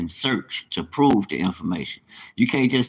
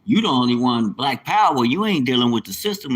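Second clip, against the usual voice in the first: louder, mock scolding of himself; talking himself down like a drill sergeant; mock self-scolding; 5 dB louder than usual. Catching himself mid-hype, loud mock scolding. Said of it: "I had to catch myself like".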